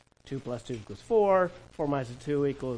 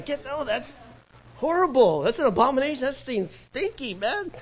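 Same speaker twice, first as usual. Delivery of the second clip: disgusted; 8 semitones higher than usual. Retold or imitated. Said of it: "the Christians around you were going".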